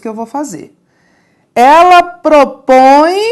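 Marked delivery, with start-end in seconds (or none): 1.5-3.2 Ela propõe, loud and slow, rising; teacher highlights the nasal ending; stressed model. Shown as a demonstration. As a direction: stretch Ela propõe out for the class. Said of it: "aqui é um, um som nasal".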